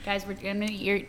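talking with a mouthful; chewing through the words; chewing while talking. Real, not acted. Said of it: "chew right in your ear".

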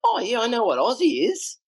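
high mock voice of a foreign doubles partner; imitating Isla. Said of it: "She goes".

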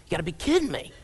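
mock stammering disbelief; hammed-up flustered shock; freaking out. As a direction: stumble over the words, voice jumping up on "what". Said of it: "he's freaking out going".

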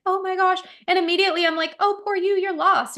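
high, sing-song cooing over a little lost cat; cooing baby talk. Retold or imitated. To a stray black cat meowing at her feet, high cooing baby talk. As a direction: coo at him like he's a tiny baby.

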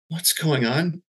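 high, pitch lifting on the question; retold earnest concern. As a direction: gently probe with rising concern. Retold concerned question to sobbing woman.

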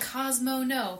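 a sharp mock yell at the dog; mock neighbor scolding. Neighbor scolding his dog Cosmo, mock sharp yell. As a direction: snap at the dog like the annoyed neighbor. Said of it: "Cosmo is their name".

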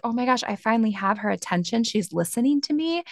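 a touch of eager urgency; eager relief. Acted. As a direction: lightly act out finally being heard. Body eagerly speaks up at last.

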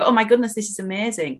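excited. Retold or imitated. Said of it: "should make you go".

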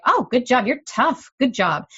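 lightly hammed-up praise to a tough kid; praising parent. Voices a parent cheering on the kid.

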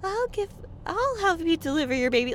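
high-pitched airy hippie caricature; mock hippie. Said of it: "like, hippies or something".

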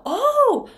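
"oh" said high and loud with rounded lips; a clear long "oh"; oh vowel. Shown as a demonstration. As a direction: demo of the rounded "oh" vowel in hole. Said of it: "ohっていう母音だ".

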